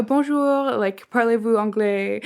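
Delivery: lightly put-on accent in French. Server coaching an American on French greetings, lightly accented. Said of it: "he did, like, the accent".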